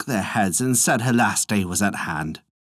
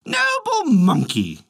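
flattering; 13 semitones higher, slower than usual. A narrator's reading. Jellyfish flatters the monkey.

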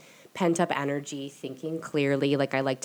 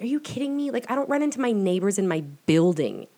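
higher, exasperated disbelief; running into her ex again, higher and incredulous; incredulous quote; 4 semitones higher, 3 dB louder than usual. Retold or imitated. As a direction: throw it up like you can't believe it. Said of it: "And I was like".

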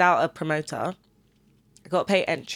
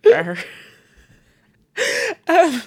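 bear roar; 11 semitones higher, 6 dB louder than usual. Shown as a demonstration. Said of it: "Do that again".

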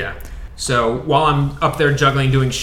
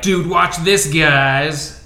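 showy announcement; 2 semitones higher, much slower than usual. Pretend. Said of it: "but just be like".

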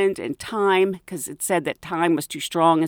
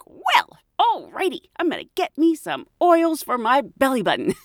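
mock enthusiasm; 6 semitones higher than usual. Mock-convinced reply to oil advice.

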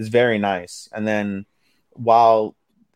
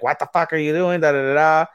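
mild mock yell; 6 semitones higher than usual. Recapping Aoi finding them asleep, mild mock yell. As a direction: imitate someone yelling without really shouting. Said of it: "comes over and starts yelling".

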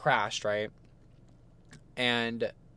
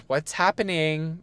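drawn-out, raised-pitch call; calling upstairs; 4 semitones higher, slower than usual. Retold or imitated. Mom calling upstairs to the arguing pair, slow singsong call. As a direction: imitate mom calling up, stretched out slowly. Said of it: "calling upstairs".

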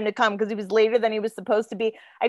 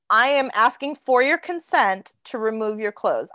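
measured, spelled-out request in an even tone; clear, formal request; 3 semitones lower than usual. Retold or imitated. Asking a hookup for consent, deliberately clear. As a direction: retell it as a careful, explicit ask. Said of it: "I was clear".

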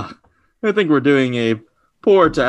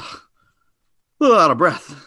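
lightly voiced Kronk, a bit breathless; a hint of Kronk, huffing slightly; easygoing henchman voice, mildly puffed; 4 semitones higher, 5 dB louder, much slower than usual. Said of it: "it's Kronk".

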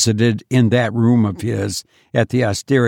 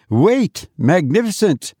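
high, panicked plea to stop; startled terrified cry; 7 semitones higher than usual. A narrator's reading. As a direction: blurt it out in fresh terror. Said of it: "cried the Masnadiero, startled by the fresh terror".

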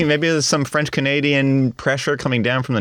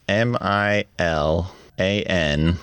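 spelling it out; 3 semitones lower, slower than usual. Real, not acted. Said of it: "spell the word".

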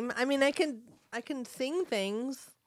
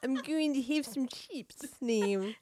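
slow, laughing attempt at a New Zealand accent; a bad, giggly New Zealand accent; a failed New Zealand accent, breaking into laughter; 3 semitones higher, 3 dB quieter than usual. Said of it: "I'm gonna do a New Zealand accent".

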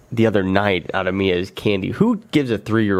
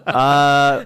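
eating sour candy; 4 semitones higher than usual. Real, not acted. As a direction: mouth full of sour candy. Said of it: "Sourness kicking in".

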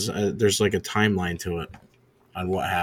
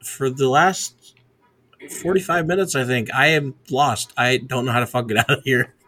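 higher-pitched, really stressed venting; stressed, raised-pitch complaint; 3 semitones higher, 3 dB louder than usual. Real, not acted. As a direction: vent like you're stuck and getting stressed. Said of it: "So I'm kinda stressed".

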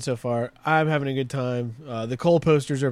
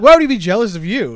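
incredulous question; 5 semitones higher, 9 dB louder than usual. Retold or imitated. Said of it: "He's like".

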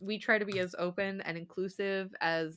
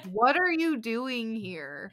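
drawn-out teasing question, louder; playful slow jab; 4 dB louder, much slower than usual. Real, not acted. Host teasing listeners, slow and playful. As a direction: stretch it out teasingly. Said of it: "playful jab at listeners".

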